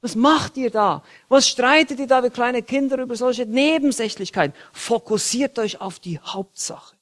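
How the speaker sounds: a hint of a scolding apostle, ending in a whisper; Paul scolding. Paul rebuking the Corinthians, mild scolding voice. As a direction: scold them like squabbling children, then hush. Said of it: "Paulus will ihnen das deutlich machen".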